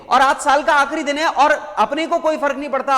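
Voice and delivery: "आज साल का आखिरी दिन है" run again quickly with a laugh; amused, tossed off with a laugh; laughing repeat. Shown as a demonstration. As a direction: chuckle through the repeat. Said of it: "अरे सुन रहे हो क्या?".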